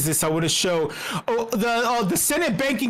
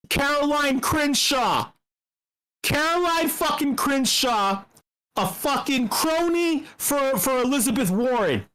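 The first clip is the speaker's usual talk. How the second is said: angry; 4 semitones higher than usual. Real, not acted. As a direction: spit out her name in scorn. Angry naming of opponent.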